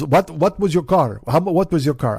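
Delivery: lightly imitated Swedish neighbor's accent; slight foreign accent, asking about the car; Oscar's accent. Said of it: "he talk like this".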